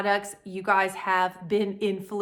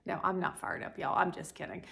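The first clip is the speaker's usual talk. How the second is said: quiet; 6 dB quieter, faster than usual. Real, not acted. Taking back the outburst.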